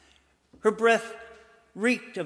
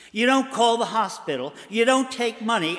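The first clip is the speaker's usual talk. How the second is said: snapped in disbelief; 4 semitones higher, 5 dB louder than usual. Retold or imitated. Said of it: "I snapped in disbelief".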